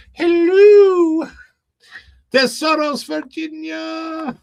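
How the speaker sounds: very high, loud falsetto; Mrs. Doubtfire. Retold or imitated. Host keeps the Mrs. Doubtfire voice going, high falsetto. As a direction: stretch it out in a dainty high voice. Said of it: "Missus Doubtfire's".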